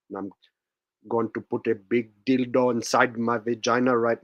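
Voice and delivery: lightly voiced conspiracy-ranter character; put-on ranting character. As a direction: play a comic know-it-all telling people to wake up. Comic character rant with catchphrases.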